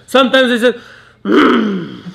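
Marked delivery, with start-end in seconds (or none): 1.2-2.0 short closed-mouth grunt of disapproval; a sulky hum of annoyance; displeased grunt. Shown as a demonstration. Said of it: "That's bad too".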